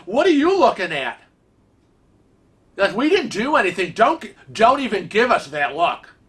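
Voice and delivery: high-pitched, indignant mock confrontation; retold pissed-off retort. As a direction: act out telling someone off, still fuming. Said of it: "like, so pissed".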